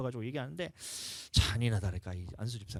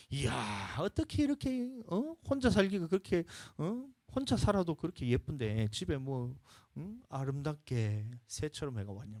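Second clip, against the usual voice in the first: mock flattery; 5 semitones higher than usual. Shown as a demonstration. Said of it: "이거 뭐 내가 잘 못하겠네".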